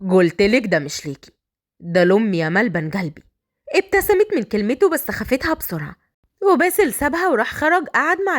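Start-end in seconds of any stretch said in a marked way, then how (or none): 0.1-3.2 low, cocky male voice; cheeky husband, voice dropped; teasing bridegroom. Acted. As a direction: needle her with an endearment.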